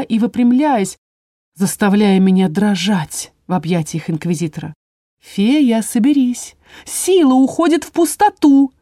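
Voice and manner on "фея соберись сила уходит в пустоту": sharp high bark into her ear, rising to a cry. A narrator's reading. House spirit barking into the fairy's ear, sharp and high. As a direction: snap at her urgently, higher and higher. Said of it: "рявкнула мне в ухо Мотя".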